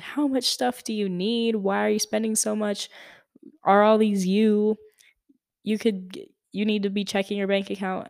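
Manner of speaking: 少し高めの声で苛立ちを真似る; 口うるさい父親の軽い苛立ち; frustrated dad. Retold or imitated. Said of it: "he's getting frustrated".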